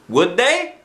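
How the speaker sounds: put-on high, slow child voice; lightly voiced boy. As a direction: answer like a gentle little boy. Christopher voiced.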